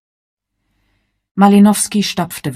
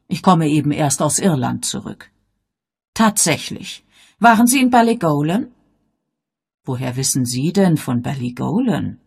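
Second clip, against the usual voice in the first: put-on gently inquisitive old lady; elderly lady; 4 dB louder than usual. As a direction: Miss Marple, mildly puzzled, slightly raised. Miss Marple voiced in story.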